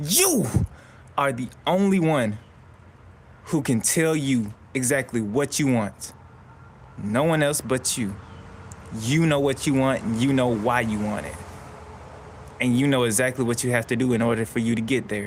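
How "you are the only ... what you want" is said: hard, pushing, confrontational, aggressive, forceful tone. Speaker addressing listeners directly, aggressive tone. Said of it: "I have to say that in an aggressive tone".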